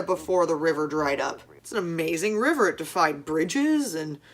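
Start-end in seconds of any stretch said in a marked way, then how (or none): 1.6-4.2 slow mock-awed sarcasm; drawn-out sarcastic praise. Mocking the movie's river logic.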